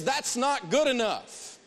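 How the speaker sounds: "That's not good enough" high, slow and drawn out; emphatic catchphrase. Shown as a demonstration. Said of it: "Use the phrase".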